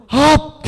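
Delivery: high, short "hap!" of exertion; effort shout. Acted. Samson breaking his bonds, sudden effort shout. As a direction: burst out as if snapping bonds.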